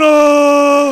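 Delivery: loud, long drawn-out "ohhh"; mock terrified "oh". Comedian re-enacting sitting terrified before the demon, drawn-out groan. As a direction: hold the sound, frozen in dread.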